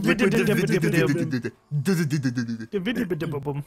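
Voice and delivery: slow drawn-out frog voice; Kermit voice. Acted. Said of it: "go more and more to Kermit the Frog's voice".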